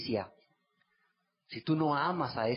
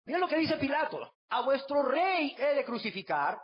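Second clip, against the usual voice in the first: Pilate asking; 9 semitones higher than usual. Acted. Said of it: "Pilato les dijo".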